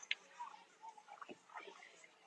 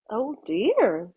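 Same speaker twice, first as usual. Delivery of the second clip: much softer, disappointed; a quiet letdown sigh; sad sigh; 6 dB quieter than usual. Acted. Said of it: "the old woman said sadly".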